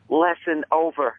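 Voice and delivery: slow, drawn-out mock stern pronouncement; lightly voiced old veteran closing the matter; old man ending the scolding; old man's verdict. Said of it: "he goes".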